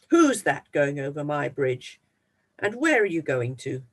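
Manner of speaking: the troll challenging from under the bridge; gruff troll. Acted.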